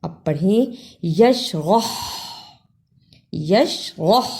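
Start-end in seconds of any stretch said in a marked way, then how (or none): 1.1-4.3 یشرح with the ح rubbed hard in the throat; throaty ha. Shown as a demonstration. Teacher has students read it, throaty h. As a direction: end یشرح on a friction ح from the throat. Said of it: "حلق سے رگڑ کر نکالنی ہے".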